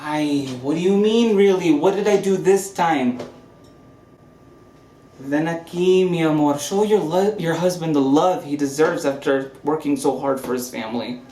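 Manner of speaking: overly affectionate tipsy charm; drunk. Acted. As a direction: gush at her like a man who's had too many. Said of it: "We'll talk when you've sobered up".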